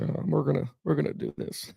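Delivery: soft mumbled coach impression; Belichick impression again. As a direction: murmur it like the Belichick bit again. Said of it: "That was an excellent Bill Belichick".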